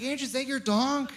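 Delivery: put-on talking down sweetly to a little kid. To his buddy's three-year-old, a lifted sing-song kid-talk voice.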